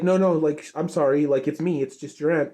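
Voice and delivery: lightly voiced worried aunt; apologetic aunt. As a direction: rush to reassure the scared little one. Twilight apologizing to scared Flurry.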